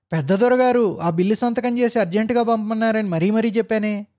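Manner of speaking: unable to contain the rage; furious firing. Acted. Officer fires the old clerk, furious tirade. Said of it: "ఇంకా కోపం పట్టలేక".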